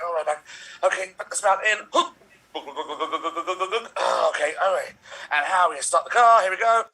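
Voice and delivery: mild mock drama at the pump; dramatic monologue. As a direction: overplay a frantic driver out of gas. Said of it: "a dramatic monologue".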